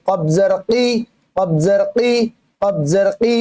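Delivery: "কি" as a q from the very root of the tongue; deep throaty qaf. Shown as a demonstration. Teacher drills qaf for learners, deep tongue-root sound. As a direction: pop the "ক" of "কফ" from inside the throat. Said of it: "জিহ্বার গোড়া থেকে একবারে".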